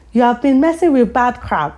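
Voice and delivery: put-on light African mum accent, scolding; imitating an African mother's telling-off. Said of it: "imagine an Af accent".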